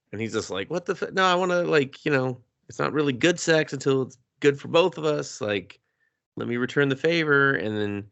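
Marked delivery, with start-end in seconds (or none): 0.7-7.5 higher, earnest protesting voice; earnest guy. Retold or imitated. Larson asking to return the favor, higher and earnest. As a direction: plead to be fair with a raised pitch.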